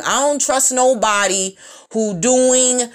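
each word drawn out slowly; deliberate slow repeat. Shown as a demonstration. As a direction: spell it out word by word. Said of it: "repeats slowly".

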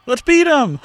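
high, loud rallying shout; excited shout. Pretend. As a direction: cheer on a mob. Voicing the bystanders.

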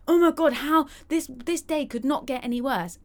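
high, loud mock wail of despair; dramatic despair. Stuck in traffic, hamming up a despairing wail, high and loud. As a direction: overreact like the day is ruined. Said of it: "You're like".

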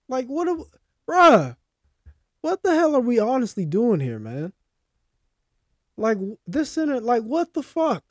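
high-pitched fed-up fan rant; real exasperation at your own team; tight, exasperated. Real, not acted. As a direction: plead in disbelief, pitch climbing. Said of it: "be getting me tight about this fucking team".

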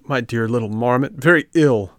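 a scared little puppet pleading; frightened puppet. A narrator's reading. Puppet to the marmot, a touch frightened. Pinocchio voiced in story.

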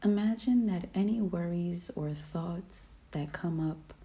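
soothing, unhurried meditation guide; calm, relaxing voice. Real, not acted. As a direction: lead a peaceful meditation, leaving room to breathe. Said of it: "my calm, relaxing voice".

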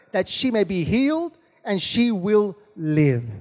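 slow, measured Bible reading; scripture reading. Acted. Preacher reads Jairus's plea to the congregation, slow scripture reading. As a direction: read it out phrase by phrase, drawing out key words.

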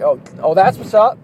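playful put-on Ebonics slang; joking Ebonics. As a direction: toss it out in mock Ebonics, just messing around. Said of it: "Ebonics? But when I say it".

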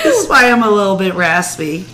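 talking through a laugh; amused, laughing aside. Real, not acted. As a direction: still chuckling as she says it. Laughing after friend's joke.

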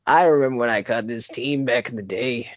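lightly voiced old trainer reminiscing; a hint of a nostalgic old man. Old trainer reminisces to the player, lightly voiced.

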